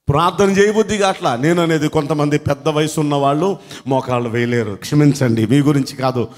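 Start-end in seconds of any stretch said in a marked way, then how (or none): none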